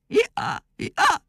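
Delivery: high squeaked hee-haw, twice; donkey bray. A narrator's reading. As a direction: answer with high little brays. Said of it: "volt erre a válasz". (magas, vinnyogó szamárhang)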